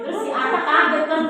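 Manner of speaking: can't hold back a laugh while telling it; real laughter breaking into the line. Real, not acted.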